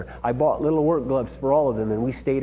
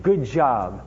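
encouraging praise; 2 semitones lower than usual. Retold or imitated. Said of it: "It was always like".

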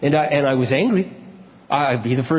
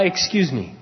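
calm. Retold or imitated. Advising a friend how to exit an argument, calm. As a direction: pitch settling down to a calm excuse. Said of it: "Or just calmly say".

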